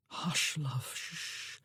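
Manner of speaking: a whispered shh to calm her; soothing whisper. Acted. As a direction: hush her gently under your breath. Man soothing wailing woman.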